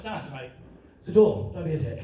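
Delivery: low, offhand retort; unimpressed son. Acted. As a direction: play it down against an angry dad. Son's deadpan reply to raging dad.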